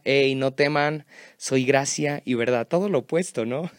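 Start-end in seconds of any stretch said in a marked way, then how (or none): 0.0-2.7 mock shout. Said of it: "Jesús grita".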